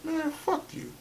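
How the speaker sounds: soft muttered retort; under the breath. Retold or imitated. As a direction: mutter it so dad can't hear. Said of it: "I said it under my breath".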